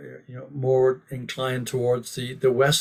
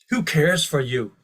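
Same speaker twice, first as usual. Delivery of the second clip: fired up; 3 dB louder than usual. Retold or imitated. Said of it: "Prabhupada was fired up".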